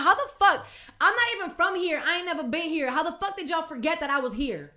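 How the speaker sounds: high indignant rant, easing off; heated, vexed. Retold or imitated. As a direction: start loud and high, demand an explanation. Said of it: "I'm heated. Y'all, I'm vexed".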